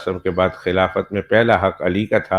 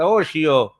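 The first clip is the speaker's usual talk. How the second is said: rough banter; 5 semitones higher, slower than usual. Retold or imitated. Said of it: "میں کہتا".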